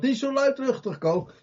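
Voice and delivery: high, mildly scolding hush; light mock reprimand. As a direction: tell him off lightly. Crowd hushing again.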